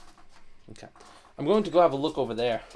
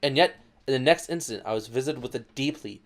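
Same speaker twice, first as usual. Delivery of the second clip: softer, sinking narration; quiet; 5 semitones lower, 7 dB quieter than usual. Acted. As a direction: let the words drop cold and quiet. Narration turns dark.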